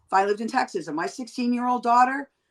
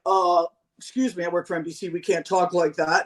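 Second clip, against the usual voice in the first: prim corporate voice; 4 semitones lower than usual. Retold or imitated. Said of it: "Can you imagine Billy if he was like".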